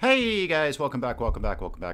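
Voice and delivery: slightly out of breath. Host greets viewers after running a few minutes behind, slightly out of breath. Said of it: "slightly out of breath".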